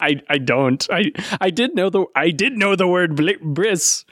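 stumbling mock-pirate accent; badly faked pirate accent, tripping over words; wobbly pirate accent. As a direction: struggle along in a put-on pirate accent. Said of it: "I can't even fucking speak in this accent".

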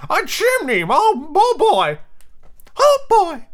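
very high, loud bubbly sidekick; high, jowly henchman exclamation; Smee. Acted. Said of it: "but that's what Smee".

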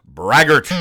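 acted comic-strip exclamation. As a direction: blurt it out as a mock accusation. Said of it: "Exclamation point".

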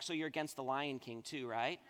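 smart aleck. Retold or imitated. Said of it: "I was kind of a smart aleck".

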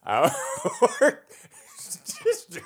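slow, high-swooping cartoon villain impression; Plankton. Shown as a demonstration. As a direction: declaim Shakespeare as a hammy little cartoon villain. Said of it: "try to do a Plankton voice".

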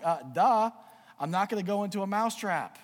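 the cow brushes off the mouse in a dopey voice. Acted. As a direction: play it like a dim cow saying duh. Cow answers dimly.

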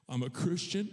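hint of a small child answering dad; five-year-old son. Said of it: "my five-year-old son says".

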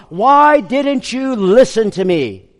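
scolding parent. Retold or imitated. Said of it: "you scold your children".

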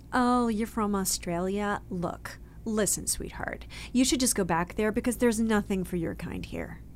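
condescending agent brushing her off, a hint of a whispered sweetheart; dismissive agent. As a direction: play the cold agent, lightly voiced. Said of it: "who kind of crushed me".

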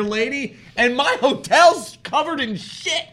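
mock outrage, laughing through it; indignant rant. Retold rant at the mother.

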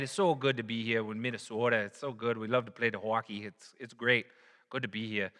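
light mock Minnesota accent; gently imitated Minnesota hockey-player accent. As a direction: put on a folksy Minnesota accent. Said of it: "you got people from Minnesota".

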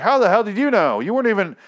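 high, loud incredulous yelp; hammed-up outraged gamer; mock disbelief. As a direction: act baffled at the game's cheating. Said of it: "I'm like".

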